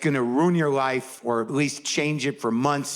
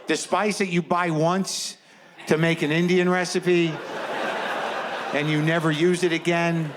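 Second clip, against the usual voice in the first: building disbelief; 3 semitones higher than usual. Retold or imitated. Building disbelief about the spice.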